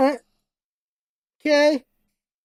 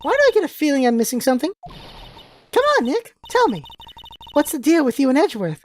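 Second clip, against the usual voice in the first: put-on high, eager teen girl; perky girl voice; 3 semitones higher, faster than usual. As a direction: pester him brightly. Maya voiced in game.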